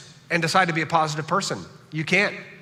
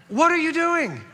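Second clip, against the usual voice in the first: high, loud disbelieving cry; mock horror, pitched way up; incredulous outburst; 4 dB louder than usual. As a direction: act appalled at ground-beef tacos. Mock outrage at Texas tacos.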